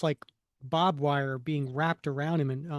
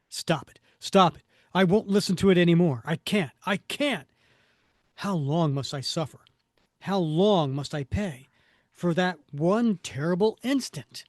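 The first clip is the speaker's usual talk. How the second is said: mildly hammed-up anguished outburst; comic-book hero in torment; 5 dB louder than usual. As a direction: burst out desperately, then ease into lament. Voices tormented Cap waking.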